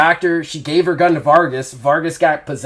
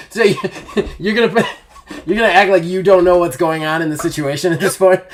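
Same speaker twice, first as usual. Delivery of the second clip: laughing through the question, a bit fast; can barely get the words out for giggling; 3 semitones higher, faster than usual. Real, not acted. GM laughing at the player's bluff, laughing.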